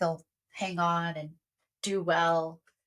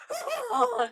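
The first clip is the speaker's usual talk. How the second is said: high-pitched mock sob; mock crying; 14 semitones higher than usual. Mom moved by stranger's support, mock sobbing. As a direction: imitate bursting into grateful tears. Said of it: "crying tears of".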